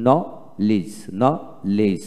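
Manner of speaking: নলেজ broken as "no... lij", no d; split syllables. Shown as a demonstration. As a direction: pause between the two syllables of নলেজ. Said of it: "এইভাবে". (ভেঙে ভেঙে নলেজ, ডি ছাড়া)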